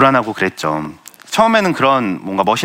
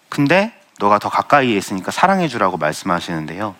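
ordinary talk

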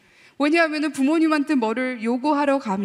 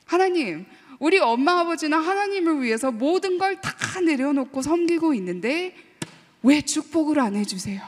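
complaining to God; 3 semitones higher than usual. Retold or imitated. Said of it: "불만이 있었어요".

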